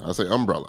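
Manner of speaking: "umbrella" with the weight on "um", low and falling; stress on UM. Shown as a demonstration. Host showing his odd way, stress on the "um" of "umbrella". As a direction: hit the "um" of "umbrella". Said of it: "I put emphasis on the um".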